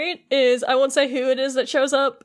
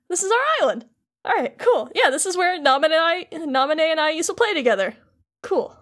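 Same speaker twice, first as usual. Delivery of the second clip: higher-pitched, lightly voiced boy hero; imitated dawning recognition; 4 semitones higher than usual. Sora recognizes his island, lightly imitated in a higher voice. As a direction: act out mild pleased recognition, pitched up.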